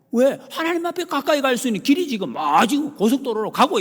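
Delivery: high, loud preaching cry; preaching shout. Real, not acted. Preacher to congregation, loud high preaching cry. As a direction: lift it high and loud to the church. Preacher rises to full force.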